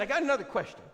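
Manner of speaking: high falsetto woman; Brenda's voice. Retold or imitated. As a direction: address him in her voice. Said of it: "And she said".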